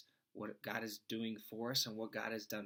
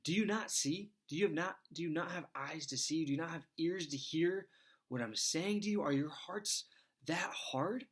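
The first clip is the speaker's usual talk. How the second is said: exasperated Jesus; 6 semitones higher than usual. Retold or imitated. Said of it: "He's like".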